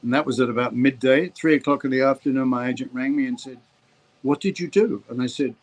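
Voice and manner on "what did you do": mildly raised pitch, puzzled imitation; retold agent's question. Agent rings the actor at three o'clock, mildly demanding. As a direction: ask it with a touch of accusation.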